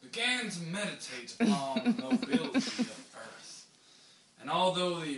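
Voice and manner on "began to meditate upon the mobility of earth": a light, hammed-up Baptist preacher read. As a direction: preach the text like a Baptist pastor, half in jest. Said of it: "But you have to talk like a, like a Baptist".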